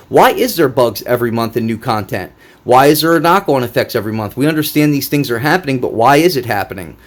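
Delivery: heated string of demands; ranting. Real, not acted. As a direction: go off the rails at the devs. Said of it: "I'm going off the rails".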